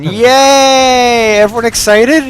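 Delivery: high, loud sarcastic cheer; mock cheer. Real, not acted. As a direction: cheer like it's a treat. Mock cheer before hard puzzle.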